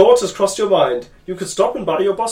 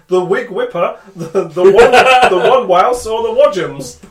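laughing; 3 semitones higher, 7 dB louder than usual. Acted. Laughing mock parody names.

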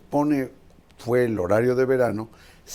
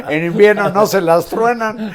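talking through real laughter; laughing as you say it; 11 semitones higher, 13 dB louder than usual. Real, not acted. Laughing at the minister's claims.

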